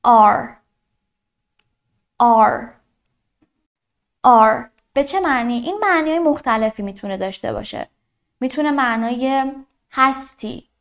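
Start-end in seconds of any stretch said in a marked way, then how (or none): 0.1-4.6 are said loud and clear; teacher modelling are loudly; loud model are. Shown as a demonstration. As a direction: project are to the class. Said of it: "و فعل to be بعدی".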